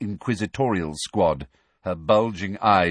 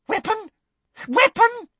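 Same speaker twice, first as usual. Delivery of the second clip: high, excited repeat, second louder; excited Umbridge; 4 dB louder than usual. A narrator's reading. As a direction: pounce on the word, thrilled. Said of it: "eyes seemed to pop with excitement".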